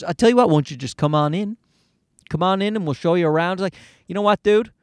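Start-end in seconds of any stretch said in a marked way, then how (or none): 0.0-3.5 fast, lower slick salesman patter; lightly voiced smooth-talking sales rep; pushy salesman. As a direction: rattle it off like a gym salesman closing. Retold pushy gym salesman pitch.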